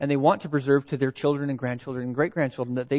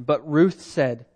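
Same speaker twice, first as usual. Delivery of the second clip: solemn Bible reading from the pulpit; scripture reading. Acted. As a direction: proclaim the text deliberately, word by word. Reads scripture aloud to congregation.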